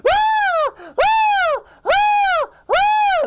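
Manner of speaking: repeated piercing high screams; cartoon scream. SpongeBob will not stop screaming, cartoon scream. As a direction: keep screaming in hammed-up terror. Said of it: "Sponge screams".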